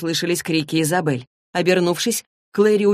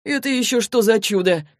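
demanding, higher-pitched question; 5 semitones higher than usual. Acted. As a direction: demand an explanation. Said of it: "требовательно спросил он". (требовательный вопрос)

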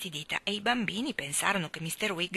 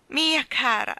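apologetic; 6 semitones higher, 6 dB louder, slower than usual. A narrator's reading. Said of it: "con aria di scusa".

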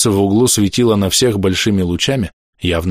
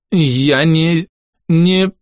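испуганный лепет; 8 semitones higher, much slower than usual. A narrator's reading. Frightened orderly stammers to doctor.

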